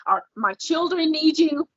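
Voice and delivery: retold upset protest, climbing in pitch at the end; mildly exasperated pleading with a partner; not happy. Wife unloading on husband home after midnight, mildly exasperated. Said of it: "And I was not happy".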